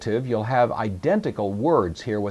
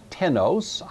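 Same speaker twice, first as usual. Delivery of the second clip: tenos said much higher with a rising end; repeated form; 8 semitones higher than usual. Shown as a demonstration. Teacher repeating the Greek form for the class, pitched high and rising. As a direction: lift tenos up high, ending on a rise. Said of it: "identical in the masculine".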